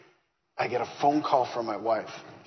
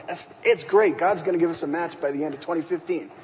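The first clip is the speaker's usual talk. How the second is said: confident excited answer; 4 semitones higher, 4 dB louder than usual. Retold or imitated. Confident answer to doubting friends.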